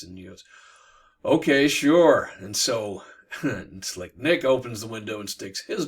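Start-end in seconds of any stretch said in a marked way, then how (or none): 1.2-2.3 mimicking her voice. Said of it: "in her voice".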